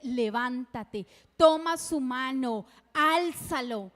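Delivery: God tells grieving mothers to rise, a slow loud command. Retold or imitated. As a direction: thunder out the command to stand.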